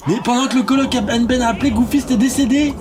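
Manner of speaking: high-pitched, worked-up disbelief; shocked commentary. Real, not acted. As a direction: report the death in excited shock. Game character died during the call. (commentaire stupéfait, voix suraiguë)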